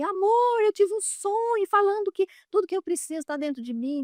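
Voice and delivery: high, bright, excited rush.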